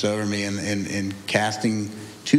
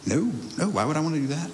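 higher-pitched mock denial; feigned innocence; 4 semitones higher, faster than usual. Man denying to paramedics he is suicidal, higher feigned innocence.

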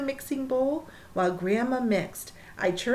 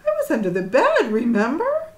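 put-on protesting child; 2 semitones higher, 7 dB louder than usual. A narrator's reading.

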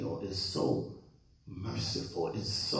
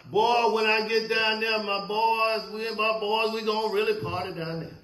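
hammed-up party boast, pitched higher; joking guys; 5 semitones higher than usual. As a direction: mimic a guy bragging to his boys about hell. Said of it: "Guys even tell, tell jokes about".

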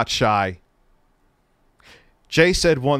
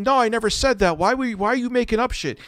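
mock quote; 10 semitones higher, faster than usual. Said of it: "in voice messages saying".

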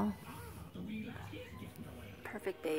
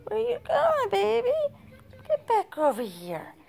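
much higher and louder, surprised; excited call; 14 semitones higher, 7 dB louder than usual. Real, not acted. Baby crawling away.

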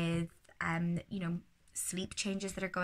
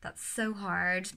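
sympathetic tutting; slower than usual. Shown as a demonstration. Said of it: "just the tutting".

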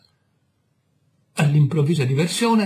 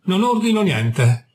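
raised voice; 5 semitones higher than usual. Acted. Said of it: "gli risposi ad alta voce".

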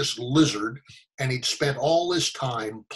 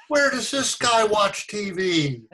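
higher, slow incredulous question; a touch of comic disbelief, drawn out; mildly baffled; 7 semitones higher, 3 dB louder, slower than usual. Retold or imitated. Actor puzzling over the homeless man, mock bafflement. Punchline, his baffled reaction.

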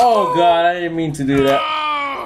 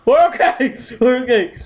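panicked reassurance; 4 semitones higher than usual. Real, not acted.

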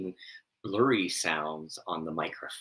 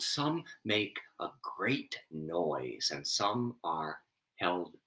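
scripture reading; 3 semitones higher, 3 dB louder than usual. Acted. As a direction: read each line like a solemn poem. Reads Taoist scripture aloud.

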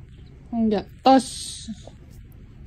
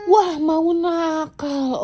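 mock threat; much slower than usual. Parent teases child with mock threat.

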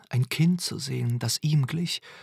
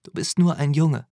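put-on quoting the girl; 4 semitones higher, 7 dB louder than usual. A narrator's reading. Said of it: "zitierte er das Mädchen".

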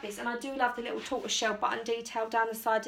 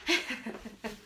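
laugh; 4 dB quieter than usual. Real, not acted. Laughing at the jean dance.

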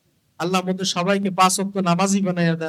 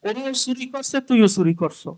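scolding king; 3 semitones higher, 3 dB louder than usual. Acted. King berating a laughing thief, acted loud scolding. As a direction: burst out at the fool, then ease off at the end. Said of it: "ধমক দিয়ে বলে".

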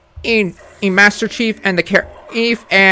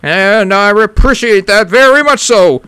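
macho voice. Acted. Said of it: "why am I still talking like this".

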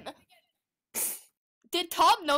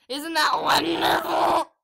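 mock sweet; 2 semitones higher, 4 dB louder, slower than usual. Mock cheerful shout.

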